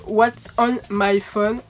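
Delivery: English title in a French accent. Real, not acted. Vlogger announcing her video title, French accent. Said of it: "désolée pour mon accent anglais".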